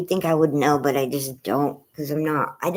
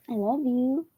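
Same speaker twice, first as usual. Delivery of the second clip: whisper; 7 semitones higher than usual. Real, not acted. Owner whispering love to her dog. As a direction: breathe it tenderly.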